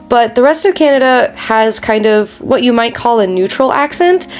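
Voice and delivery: accent ending in a sharp questioning rise; Canadian uptalk. Shown as a demonstration. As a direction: end on accent like a question, pitch going up. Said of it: "we end our sentences like a question".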